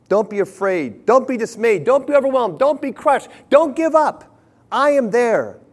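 preacher building to a climax of comfort; building exhortation. Acted. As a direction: build from firm to a ringing cry.

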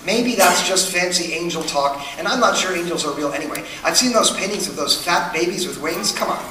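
mildly voiced skeptic scoffing at angel talk; dismissive skeptic. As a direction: play the doubter waving the angels away, a bit hushed and quick. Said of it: "I would be okay with you saying".

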